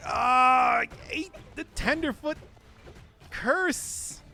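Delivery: loud, high cry of dismay; frustrated shout. Real, not acted. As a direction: yell it out at the bad luck. Hit in game, shouting.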